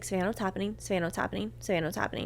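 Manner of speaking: soft, repeated phone-call plea; small, hushed voice imitating a friend on the line; quietly insistent questioning; imitating worried friend.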